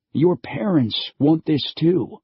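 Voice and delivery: slow, lightly voiced old stranger; old stranger slowly reassuring the girl; slow persuading old man. A narrator's reading. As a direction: coax her gently.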